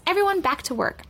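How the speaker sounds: announcing teacher; teacher's announcement. A narrator's reading. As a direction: call the class back to work. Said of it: "announced Miss Zarves".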